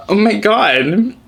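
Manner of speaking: high, slow, drawn-out dismay; mock outrage. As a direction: act scandalized, stretching every word. Acted outrage at cruel nicknames.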